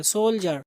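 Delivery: "सोल्जर" with a clear j in the middle; j-sound demo. Shown as a demonstration. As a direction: pronounce "सोल्जर" as sol-jer, no d. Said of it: "जा के आवाज आएगी".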